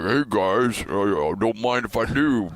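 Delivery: lightly mocking, chummy greeting with a goofy laugh; mock a pushy booth crasher; obnoxious intruder. Broadcaster mimicking strangers who walk into his booth, obnoxious. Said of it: "loud, obnoxious voice".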